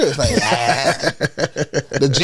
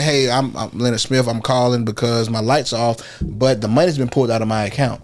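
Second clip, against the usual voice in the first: professional phone voice; 5 semitones lower than usual. Shown as a demonstration. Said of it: "Instead of me saying".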